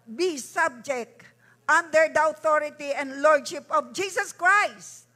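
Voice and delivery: loud fervent prayer declaration; loud, urgent preacher's prayer; preaching at full force. Acted. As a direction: proclaim it over the congregation like a revival preacher.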